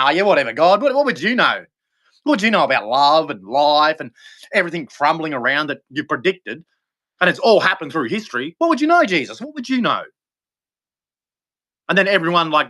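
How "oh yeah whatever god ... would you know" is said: sarcastic taunt. Retold or imitated. Mocking crowd taunting God.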